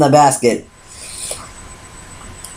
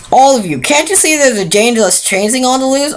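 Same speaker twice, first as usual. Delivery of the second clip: high, urgent exasperated plea; guard pleading with a stubborn stallion, exasperated; 6 semitones higher than usual. Acted. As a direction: push the point, losing patience. Exasperated guard explains danger.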